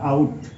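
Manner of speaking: आउट said as in cricket out; ought said exactly like out; pronounced like out. Shown as a demonstration. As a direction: say आउट, the gh silent. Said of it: "दोनों का उच्चारण एक ही जैसा होता है".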